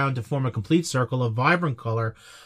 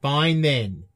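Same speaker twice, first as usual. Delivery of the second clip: lower, sulky pretend pouting; mock sulking; 4 semitones lower, slower than usual. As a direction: huff off like a wounded performer. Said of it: "at least you can do is clap for me".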